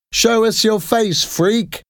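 put-on children jeering at a stranger; taunting shout. A narrator's reading. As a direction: goad him to unmask. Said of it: "they shouted".

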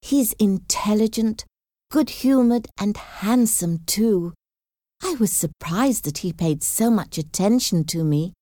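lightly voiced admiring young sister; admiring Jane. Jane praising Mr Bingley.

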